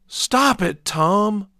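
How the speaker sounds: high, loud angry shout. A narrator's reading. Father shouting at his crying son. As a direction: yell at the crying boy to stop. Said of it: "I shouted".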